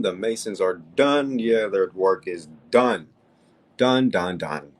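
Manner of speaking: slow, loud, triumphant gloating. Real, not acted. Host gloating to viewers that the Masons are beaten, slow and loud. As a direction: hammer each word home in triumph.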